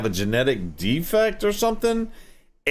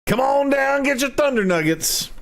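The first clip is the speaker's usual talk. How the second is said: radio ad voice; 14 semitones higher than usual. Pretend. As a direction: hype it like a radio ad. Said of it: "radio voice".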